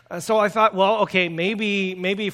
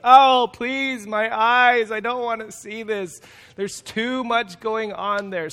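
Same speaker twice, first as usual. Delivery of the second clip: mock disgust; 3 semitones higher, 4 dB louder, slower than usual. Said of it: "you're just like".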